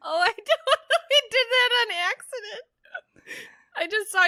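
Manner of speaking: high, loud through laughter; laughing. Real, not acted. Laughing hard at mistake.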